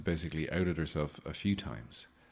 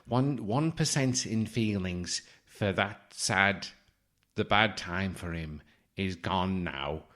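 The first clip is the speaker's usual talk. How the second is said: a light imitation of the psychic's reading; mock psychic. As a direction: drone out the reading like a fraud. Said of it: "He just starts going".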